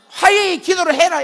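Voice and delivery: high, loud call to pray; preaching command. Retold or imitated. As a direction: command the crowd to pray for reconciliation. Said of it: "이러면".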